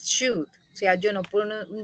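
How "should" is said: SHOULD said slowly with no L sound, like "shood"; should with silent L. Shown as a demonstration. Teacher showing the class the pronunciation of "should", silent L. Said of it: "yo no pronuncio la L".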